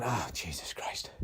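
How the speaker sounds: hushed unvoiced "Oh, Jesus Christ"; whispered dread. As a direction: breathe it out in quiet horror. Dread at royals attending.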